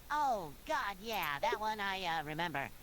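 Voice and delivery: hesitant, mildly uneasy reply; slightly nervous. A narrator's reading. SpongeBob asked about that episode, slightly nervous. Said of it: "muttered in a slight nervous tone".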